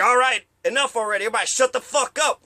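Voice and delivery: quick, exasperated imitation of a diva host; lightly hammed-up fed-up outburst; mock queening out. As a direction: act out a host's tantrum, speeding up. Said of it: "He starts queening out".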